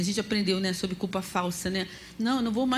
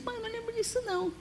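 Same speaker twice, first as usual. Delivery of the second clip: put-on much higher, quicker, girlish; daughter's voice; 13 semitones higher, 8 dB quieter, much faster than usual. Mother imitating grown daughter brushing it off, high and quick. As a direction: chirp it like a young girl. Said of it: "hoje eu falo assim com a Débora".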